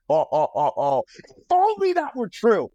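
high, sarcastic mock lament. Comedian reacting sarcastically to the rumour, high mock lament. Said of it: "And I'm like".

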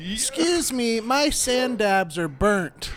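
slow, entitled diner complaint; snooty complaint. Acted. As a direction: drag it out like a fussy customer. Complaining diner calls waiter.

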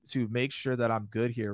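ordinary talk

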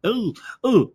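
attempting a mock Russian accent. Trying out Russian for the other speaker, mock Russian accent. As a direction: fumble playfully into a Russian accent. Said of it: "we can talk with a Russian accent".

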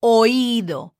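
oído with all its vowels sounded; "Oído" with o, i and o each voiced; every vowel pronounced. Shown as a demonstration. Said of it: "You have to say all the vowels".

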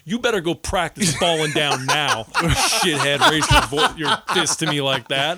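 half-laughing mock threat; laughing taunt. Dad laughingly taunts his toddler son. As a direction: taunt him through laughter.

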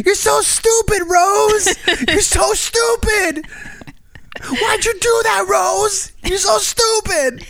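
put-on high old-Hollywood dramatic voice; Titanic movie voice. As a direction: ham it up like a Titanic lover. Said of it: "I wanna be like".

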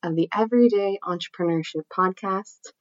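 nasal voice from a cold; nasally voice. Real, not acted. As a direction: speak through a blocked nose with a cold. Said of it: "my nasally voice".

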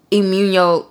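"immuno-" slipped into "ee-myoon-yo"; "immuno-" ending like El Niño; accidental Spanish pronunciation. Real, not acted. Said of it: "put a Mexican on that".

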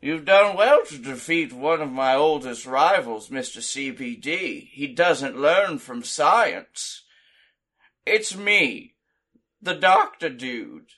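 lightly voiced heel promo; villain promo. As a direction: cut a smug villain promo. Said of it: "he pulls a mic out and he says".

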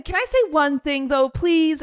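high, sweet fake plea; mock-polite pleading. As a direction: ask with exaggerated politeness. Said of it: "I'm being very condescending".

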